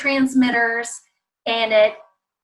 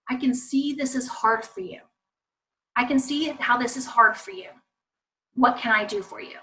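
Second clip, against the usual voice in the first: gentle empathy; 3 dB quieter than usual. Shown as a demonstration. Models gentle alternative to scolding.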